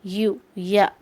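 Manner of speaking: "यू, या" said clearly with a y glide at the start; yu sound shown. Shown as a demonstration. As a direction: mark the y in "यू, या" for learners. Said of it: "कैसे pronounce कर रहे हैं हम?". ("यू, या" में य की आवाज़ साफ़ दिखाओ)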